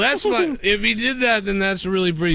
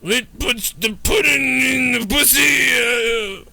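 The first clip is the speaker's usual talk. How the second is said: mock yell; 6 semitones higher, much slower than usual. Crude joke yelled out.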